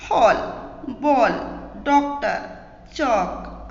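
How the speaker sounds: हॉल, बॉल with an open "aw" between aa and o; ardhachandra words. Shown as a demonstration. Teacher giving English loanword examples, vowel between aa and o. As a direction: round the first vowel of डॉक्टर and चौक to aw, word by word. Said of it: "आ और ओ के बीच की ध्वनि".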